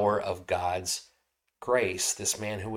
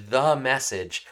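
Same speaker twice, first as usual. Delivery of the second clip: "the" punched louder as its own beat; stress on THE; 3 semitones higher, 5 dB louder, slower than usual. Real, not acted. Preacher on Paul's true message, stressing "the". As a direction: lean hard on "the", meaning the one and only. Emphatic restatement, second take.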